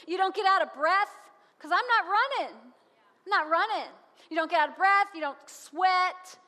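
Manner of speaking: loud, punched words on NOT; preaching emphasis. Acted. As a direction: hammer each line home from the pulpit. Building sermon emphasis.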